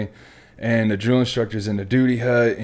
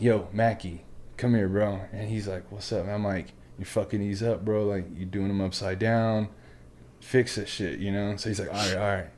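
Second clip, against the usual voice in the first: hushed exchange; 2 semitones lower, 8 dB quieter than usual. Retold or imitated. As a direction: talk under your breath between recruits. Quiet exchange behind instructor's back.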